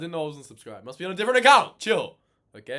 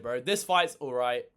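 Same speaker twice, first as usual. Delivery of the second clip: usual speaking voice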